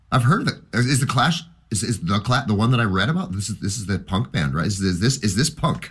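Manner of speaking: high, rushing, breathless questions; a kid thrilled by a new band; eager excited fan. Retold or imitated. Retelling his teenage self asking eagerly.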